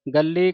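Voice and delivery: ਗੱਲੀ with a firm doubled l; tightly pressed consonant. Shown as a demonstration. Teacher models for congregation, ਗੱਲੀ with tight doubled l. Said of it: "ਗੱਲੀ ਕੱਸ ਕੇ ਬੋਲਣਾ ਹੈ".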